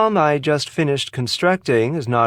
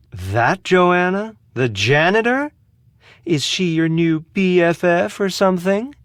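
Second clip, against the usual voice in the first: higher-pitched, incredulous questions; scornful disbelief; 5 semitones higher than usual. Acted. Asking if the janitor is her new friend, scornful. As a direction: lift each question in disdain.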